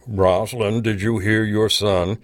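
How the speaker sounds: whiny, mocking singsong. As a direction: mimic him in a whiny voice. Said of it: "in a whiny voice".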